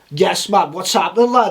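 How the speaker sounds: a lightly put-on Liverpool lad; Scouse accent. J-Dog greets Matt Hoffman in the van, Scouse accent. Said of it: "J-Dog's like".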